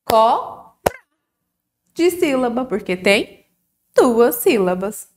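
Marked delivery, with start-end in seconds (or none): 0.0-0.7 "Cobra" chopped into beats for clapping, CO, BRA; syllable by syllable. Shown as a demonstration. Teacher leading children in clapping, "Cobra" split by syllable. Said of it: "Vamos bater palma?".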